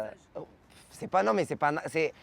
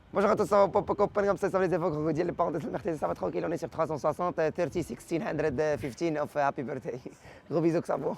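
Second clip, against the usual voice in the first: improvised video intro; 2 semitones higher than usual. Shown as a demonstration. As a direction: rattle off a hammed-up greeting to your followers. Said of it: "la vidéo, c'est comme ça que ça se fait". (intro de vidéo improvisée, débit effréné)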